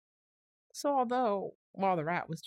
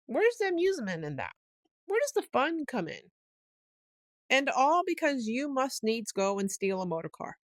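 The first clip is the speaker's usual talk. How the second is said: higher, louder exasperated scolding; 7 semitones higher, 6 dB louder than usual. A narrator's reading. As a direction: throw up your hands at him. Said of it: "while the rat was talking so seriously".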